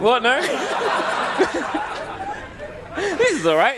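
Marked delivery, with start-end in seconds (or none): 0.4-2.9 drawn-out high giggle; rising giggle fit; long high laugh. Real, not acted.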